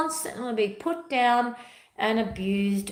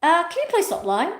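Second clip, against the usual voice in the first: firm boundary; 7 semitones higher, 3 dB louder than usual. Shown as a demonstration. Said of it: "I go".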